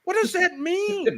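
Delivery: very high, slow disbelief; comic, squeaky-high bewilderment; baffled outcry. Acted. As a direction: stretch the question out, utterly lost. Mock bafflement at British talk.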